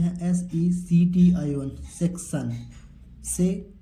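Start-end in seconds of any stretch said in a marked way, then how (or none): 3.3-3.7 से held by itself; first syllable alone. Shown as a demonstration. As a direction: sound out से as the start of सेक्शन. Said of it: "सी का क्या पढ़ेंगे?".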